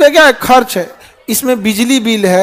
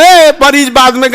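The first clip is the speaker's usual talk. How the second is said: drawn-out shout to stop someone; acted roadside holler; calling out; 3 dB louder than usual. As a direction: halt them with a long, raised "ए". Acted bystander stopping an ambulance.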